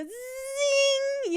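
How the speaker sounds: high, slow robotic zing; Zingbot zing. Shown as a demonstration. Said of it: "I'm not gonna do the voice".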